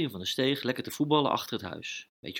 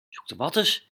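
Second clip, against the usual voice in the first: puzzled cry; 4 semitones higher than usual. Acted. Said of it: "riep Lucas".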